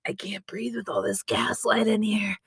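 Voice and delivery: mock gasping whisper; whispered quote. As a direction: whisper it breathlessly.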